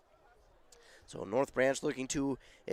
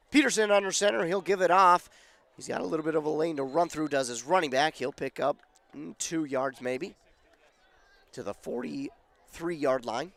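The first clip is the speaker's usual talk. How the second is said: losing voice. Real, not acted. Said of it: "I am losing my voice a little bit".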